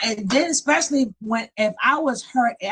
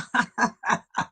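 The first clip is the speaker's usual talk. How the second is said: laugh; 2 semitones lower than usual. Real, not acted. Host laughs after her catchphrase.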